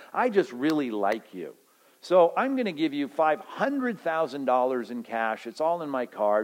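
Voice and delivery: lightly voiced pastor handing out cash; generous pastor. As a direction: lightly play the beaming benefactor. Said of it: "I come up to you after the service and say".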